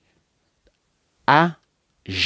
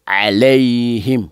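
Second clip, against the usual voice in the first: recitation demo; much slower than usual. Shown as a demonstration. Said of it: "Ce qui suit".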